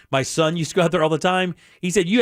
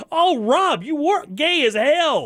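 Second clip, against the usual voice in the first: teasing exclamation; 11 semitones higher, slower than usual. Retold or imitated. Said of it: "I'm like".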